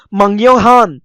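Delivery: मंग्योंग हान with ng replacing the k; nasalised sound change. Shown as a demonstration. Teacher gives the real pronunciation, ng sound in मंग्योंग हान. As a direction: say मंग्योंग हान, first syllable ending in ng. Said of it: "ये लफ्ज होगा".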